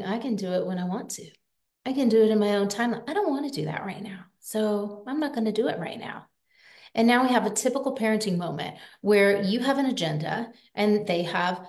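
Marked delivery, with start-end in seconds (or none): 0.0-6.3 put-on fast, breezy child's inner voice, fading to a whisper; stubborn kid's thoughts. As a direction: rattle off a kid's excuses, then whisper them away. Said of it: "They are thinking".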